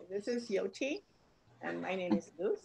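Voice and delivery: speaking up. Real, not acted. Newcomer repeating her introduction after being asked, speaking up. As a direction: raise your voice slightly to be heard. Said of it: "speak up a little bit louder".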